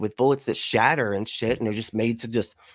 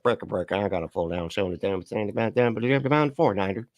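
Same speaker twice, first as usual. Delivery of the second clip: lower, softer trucker radio chatter; CB radio trucker impression; 4 semitones lower, 3 dB quieter, faster than usual. Streamer doing a lower trucker CB call for his guest. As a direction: rattle it off like a trucker on the CB. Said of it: "That was my C B impression".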